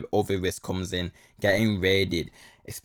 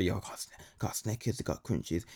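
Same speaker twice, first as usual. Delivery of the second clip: hushed and much softer, still voiced; retold whisper; 11 dB quieter than usual. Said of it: "Yo, I whisper".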